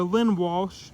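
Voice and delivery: "Lynn Walsh" said slowly, every sound clear; careful slow repeat of "Lynn Walsh" for the audience. Shown as a demonstration. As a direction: spell out "Lynn Walsh" slowly so viewers catch it. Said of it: "I wanna make sure you guys understand".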